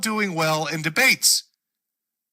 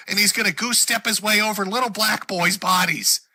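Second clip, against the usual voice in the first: mocking alarmist; 4 semitones higher than usual. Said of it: "fuck off with your fairy tales".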